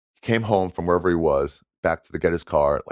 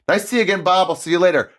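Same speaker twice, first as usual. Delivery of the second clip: mock cheery; 12 semitones higher, 4 dB louder, faster than usual. Mimicking the proud wrong-name user.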